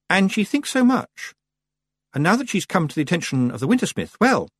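high, worried witch voice; high-pitched, hesitant concern; concerned Miss Tick. Acted.

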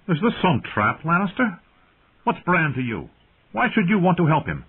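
high-pitched, puzzled challenge; suspicious young lord. A narrator's reading. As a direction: question a visitor you don't trust.

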